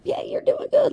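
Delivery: very high-pitched cheering-on; encouraging friends. Retold or imitated. Friends building her up, high-pitched encouragement. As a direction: imitate supportive friends in a high voice. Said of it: "build me up".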